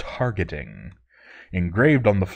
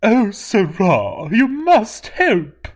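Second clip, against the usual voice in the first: high, slow desperate plea; pleading cry; 12 semitones higher, 5 dB louder, much slower than usual. Acted. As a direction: beg for help, near tears. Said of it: "she cried".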